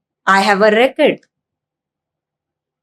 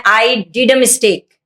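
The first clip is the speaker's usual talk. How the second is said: slow quoted mistake; much slower than usual. Shown as a demonstration. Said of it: "और बोलते हैं".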